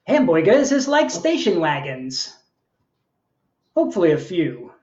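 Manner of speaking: measured, performed poem with lilting phrases; poetry reading. Acted. Poet reading to an online audience, performed delivery. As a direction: read it as a live poem, line by line. Reads own poem aloud.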